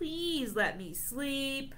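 soft, weary, worn-out moan. A weary dragon speaks in a read-aloud story, weary moan. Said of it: "One weary dragon moans".

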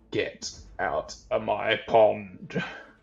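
creature voice sounding from beneath the water. Describing a grimacing face in a pond, as a voice from under the water. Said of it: "you can hear this voice under the water be like".

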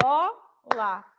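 bola split slowly, one syllable at a time. Teacher showing how a word divides: bola split into syllables. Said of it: "Separou. ... a gente vai falando a palavra, né, um pouquinho mais devagar".

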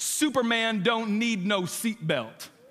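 cocky, brash, boastful tone. Retelling a boxer answering the flight attendant: imitating a loud boastful announcement. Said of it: "audaciously announced for the whole plane to hear".

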